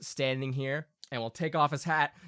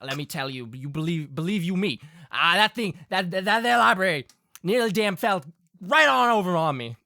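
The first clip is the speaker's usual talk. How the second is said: indignant folksy father spinning a yarn; storytelling Southern Pa; 4 semitones higher than usual. Acted. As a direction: tell a country tale of near disaster. Game master plays Pa.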